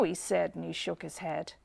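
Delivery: ordinary delivery, nothing marked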